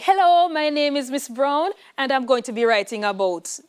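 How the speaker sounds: mock-childish sing-song greeting; childish essay opening. Teacher mocking a pupil's childish essay start, sing-song. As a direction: play a young kid reading out an essay. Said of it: "That is so grade four".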